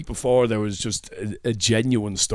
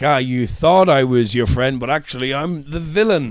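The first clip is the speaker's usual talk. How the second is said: movie villain reveal; 5 dB louder than usual. Pretend. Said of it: "in, like, a movie".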